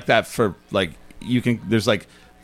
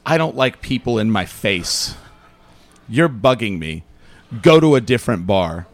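retold curt bartender. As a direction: lightly act a fed-up bartender, word by word. Retold fed-up bartender rebuke.

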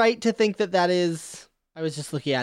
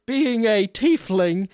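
put-on affected southern accent. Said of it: "as you can tell from my affectation".

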